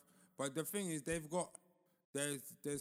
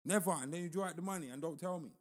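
higher, louder indignant rant; mock outrage; 5 semitones higher, 6 dB louder than usual. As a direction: rant like the wronged brother. Imitating angry victim.

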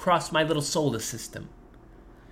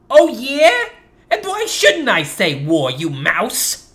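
defiant; 2 semitones higher, 3 dB louder, slower than usual. Acted. Baby challenges grandpa.

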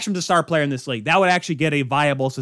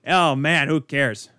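a hint of hockey commentator, excitement fading into indifference; Jack Edwards. Host mimicking a biased announcer calling a hit, lightly voiced play-by-play. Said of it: "He, Jack Edwards, on the call".

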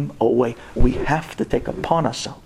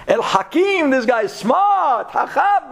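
delighted exclamation; 9 semitones higher than usual. Acted. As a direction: burst out in praise. King exclaims praise.

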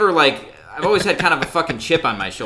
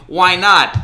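mock indignant, higher and louder; indignant protest; 5 semitones higher, 8 dB louder than usual. Drunk woman challenging the clerk's refusal, mock indignant. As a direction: imitate an affronted drunk customer.

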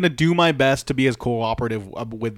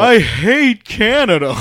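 mock heel taunt; 9 semitones higher, 7 dB louder, slower than usual. Mocking Elias's anti-Canada shtick.

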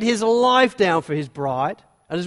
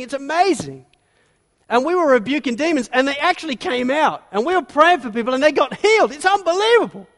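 higher, louder, rushing excited report; exhilarated; 4 semitones higher, 4 dB louder than usual. Retold or imitated. Disciples tell Jesus of their success, rushing and excitedly climbing higher. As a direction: gush it out, climbing to thrilled disbelief. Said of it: "They're exhilarated".

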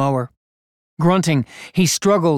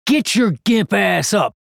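higher, barked order; harsh demand; 6 semitones higher than usual. Acted. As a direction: snap the boy to his feet. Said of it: "Cop demanded".

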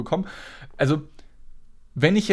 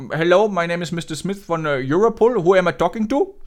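put-on Indian accent; 4 semitones higher, 3 dB louder than usual. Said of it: "nicht über den indischen Akzent lustig".

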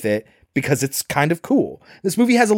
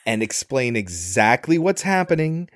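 stoner. Retold or imitated. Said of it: "he's like".

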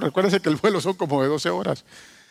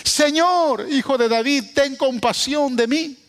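súplica leída un poco más alta; grito leído suave; 6 semitones higher than usual. Acted. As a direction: lee el grito sin gritarlo del todo. (clamor leído, apenas elevado)

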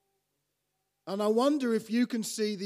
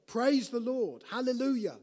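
loud, high hallelujah; preacher rousing the congregation to praise; exuberant praise; 6 semitones higher, 3 dB louder than usual. Shown as a demonstration. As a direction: call it out with joy. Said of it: "exuberant praise of joy".

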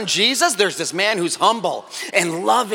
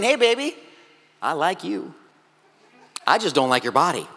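soft, low smooth-talker voice; a lightly voiced guy sweet-talking a girl; cheesy pickup line; 4 semitones lower, 3 dB quieter than usual. Man sweet-talks a girl he wants to date, mock smooth. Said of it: "that's like you walking up to her and saying".

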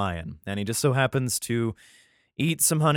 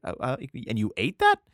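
whispered mock disbelief. Himself hearing about honey from a lion, whispered disbelief. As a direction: act grossed-out disbelief. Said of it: "I'm like".

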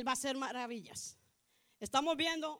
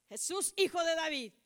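raised, louder voice calling out; crying out; 3 semitones higher, 5 dB louder than usual. Retold or imitated. Preacher voices blind Bartimeo calling Jesus, crying out. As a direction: call out to be heard, re-enacted. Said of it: "él empezó a gritar".

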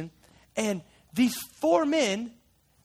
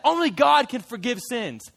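indignant Pharisee; 3 semitones higher, 4 dB louder than usual. Acted. The Pharisees protest Jesus's words, indignant. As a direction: push back hard, stress on God. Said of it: "the Pharisees are like".

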